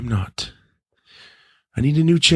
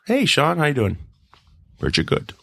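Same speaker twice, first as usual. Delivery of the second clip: Sean Connery; 5 semitones higher than usual. Acted. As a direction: toy with a Scottish film-star impression. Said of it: "Why do I sound like Sean Connery now?".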